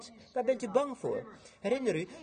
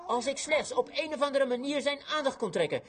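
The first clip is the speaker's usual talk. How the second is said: acted longing plea; 6 semitones higher than usual. Woman's longing thought acted out.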